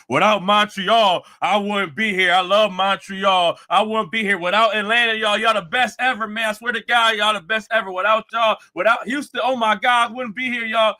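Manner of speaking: lightly voiced impression of a rapper praising every city on tour; mock rapper speech. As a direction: parody an arena shout-out, gushing to every city. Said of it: "your speeches of saying how much you love this area".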